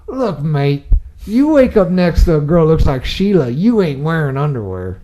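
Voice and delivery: a playful mock Australian accent, laid on thick; hammed-up Aussie accent that drifts toward the American South. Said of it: "my best Australian accent here".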